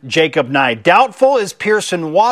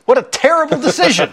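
Mike Tirico impression; 8 semitones higher, faster than usual. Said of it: "Mike Tirico ... put it best".

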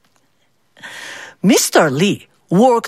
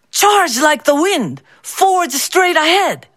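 rousing cry; 7 semitones higher than usual. A narrator's reading. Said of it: "Or he would say".

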